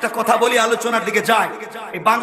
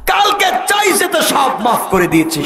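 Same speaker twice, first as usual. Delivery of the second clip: emphatic shout; 6 semitones higher than usual. Acted. God insists on forgiveness.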